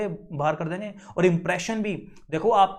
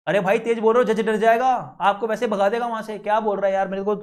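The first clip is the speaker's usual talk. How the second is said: louder, mock-aggressive demo of shouting in court; 2 semitones higher, 4 dB louder than usual. Shown as a demonstration. Teacher warning students, showing aggressive loud speech. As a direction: show the class how shouting sounds too aggressive. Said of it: "तेज बोलना start हो गया".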